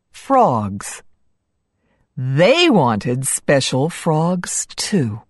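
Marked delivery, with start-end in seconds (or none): none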